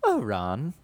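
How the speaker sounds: squeaky high mock schoolgirl voice; put-on high falsetto, gently chiding; Hermione, prim mock version. The real Hermione nagging Ron, mock falsetto. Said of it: "when really it was just".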